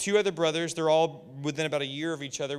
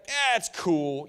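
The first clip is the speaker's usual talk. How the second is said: relaxed cool; much slower than usual. Retold or imitated. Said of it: "his whole demeanor changed from".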